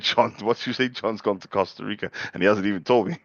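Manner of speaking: mimicking his mate. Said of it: "you said".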